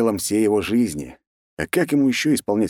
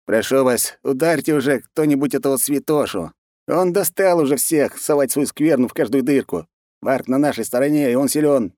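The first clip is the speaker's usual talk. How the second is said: higher-pitched complaining voice; fed-up comrade; 6 semitones higher than usual. A narrator's reading. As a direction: plead to be rid of the holy man, pitched up. Gorvan complains about the monk. (раздражённый соратник, высоким голосом)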